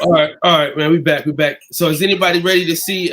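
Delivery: loud hype voice; hyped announcer. Real, not acted. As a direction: pump up the crowd. Host hypes return.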